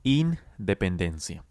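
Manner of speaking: slow, careful independencia; slow model word. Shown as a demonstration. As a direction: spell out Independencia syllable by syllable, slowly. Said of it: "try to say it with me".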